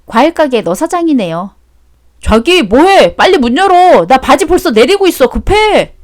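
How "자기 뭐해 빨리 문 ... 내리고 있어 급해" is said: loud, pitched-up tipsy pleading; a drunk man begging to be let in; loud drunken urging; drunk at the door. Acted. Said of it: "이게 대낮부터 술 처마셨나?".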